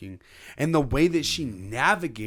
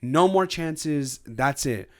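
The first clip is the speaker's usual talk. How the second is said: fed-up voice; 5 semitones higher than usual. Retold or imitated. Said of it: "she's saying".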